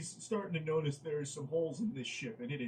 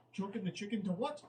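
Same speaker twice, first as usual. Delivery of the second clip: rising, higher-pitched disbelief; incredulous question; 5 semitones higher than usual. Real, not acted. Reader questioning what aroused him, rising incredulity.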